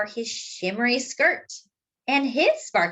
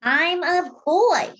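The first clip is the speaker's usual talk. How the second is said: high, loud, slow insistence; firm insistence; 8 semitones higher, 5 dB louder, slower than usual. Acted. Casey insisting to the girl, high, loud and slow. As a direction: plant your feet and declare it slowly.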